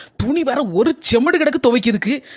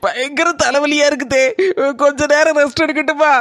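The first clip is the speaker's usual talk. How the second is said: fake sick voice; 2 semitones higher than usual. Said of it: "நடிக்க வேண்டியிருக்கு".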